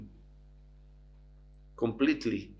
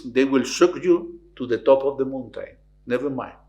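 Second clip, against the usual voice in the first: louder, solemn heavenly voice; voice of God; 5 dB louder than usual. Retold or imitated. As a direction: speak down as God. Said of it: "the voice of God". (voice of God from the clouds)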